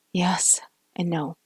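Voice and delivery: slow breathy whispered admission. Acted. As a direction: breathe it out, barely voiced. Admitting painful truth in whisper.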